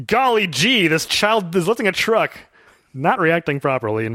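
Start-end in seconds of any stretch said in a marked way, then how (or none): 0.1-2.4 lightly voiced gee-whiz farmer dad; a hint of a hokey old-time dad, slower; wholesome 1950s dad. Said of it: "he says as he throws down his rag".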